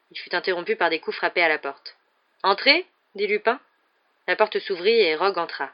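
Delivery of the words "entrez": calling out. A narrator's reading. Lupin calls through door.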